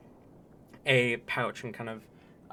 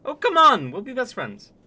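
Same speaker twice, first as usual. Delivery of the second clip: put-on high, lively Canadian accent; Canadian character voice, pitched up; 13 semitones higher, 14 dB louder than usual. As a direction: play him as a broad Canadian. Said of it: "can't wait for the accent".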